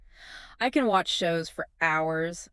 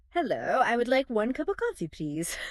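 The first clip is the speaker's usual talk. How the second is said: stiff textbook English; 5 semitones higher than usual. Retold or imitated. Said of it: "Nobody actually talks like that".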